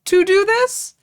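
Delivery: high-pitched, emphatic indignation; mad. Real, not acted. Co-host objecting to a fake skier, indignant. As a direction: climb in pitch as the grievance builds. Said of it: "I'm legitimately mad about this".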